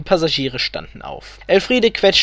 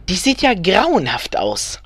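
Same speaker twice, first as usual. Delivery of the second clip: higher, slow, spiteful stage whisper; 5 semitones higher, slower than usual. A narrator's reading. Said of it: "flüsterte Elfriede gehässig".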